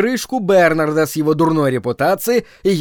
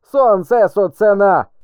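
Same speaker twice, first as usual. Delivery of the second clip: slow, higher fierce jeer; fierce mockery; 5 semitones higher than usual. A narrator's reading. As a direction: sneer it savagely. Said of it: "со свирепой насмешкой".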